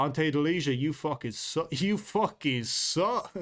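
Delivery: put-on Irish-accent trash talk, drawn out; McGregor impression. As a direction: drag the insult out in a mock Irish accent. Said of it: "do a little bit of McGregor right there".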